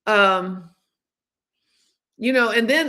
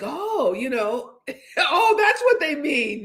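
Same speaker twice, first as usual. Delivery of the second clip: laughing realization; 4 semitones higher, slower than usual. Real, not acted. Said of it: "now I'm like".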